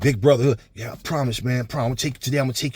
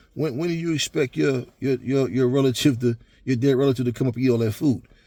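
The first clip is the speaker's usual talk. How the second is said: play-acted snide, sarcastic, needling tone. Telling a joke about two men at a gravesite, imitating a sarcastic question. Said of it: "to be sarcastic to him".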